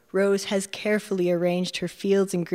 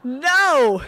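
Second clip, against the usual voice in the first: much higher, louder mock-grand refusal; playful refusal; 8 semitones higher, 5 dB louder than usual. Narrator refusing Rose, playful mock protest. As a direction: claim it as fate.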